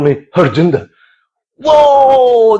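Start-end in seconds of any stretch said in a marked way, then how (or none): 1.6-2.6 high shouted whoa; high startled exclamation. Acted. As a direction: recoil in mock shock. Shocked at being called Harjinder.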